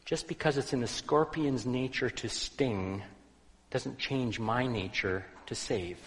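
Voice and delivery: calm, unhurried reply. Acted. Old man calmly answering the angry passerby, calm and steady. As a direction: answer gently, never rising. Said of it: "the old man said calmly".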